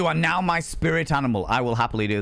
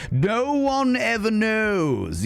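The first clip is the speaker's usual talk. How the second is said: mysterious hush; 7 semitones higher, much slower than usual. Acted. Secretive drink tease.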